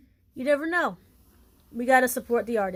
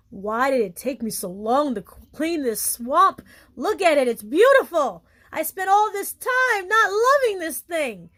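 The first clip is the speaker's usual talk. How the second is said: mock astonishment, swooping up higher as it builds; acted amazed realization; 4 semitones higher, 3 dB louder than usual. Viewer finally loving themselves, acting out amazed regret. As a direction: play a hammed-up sudden revelation.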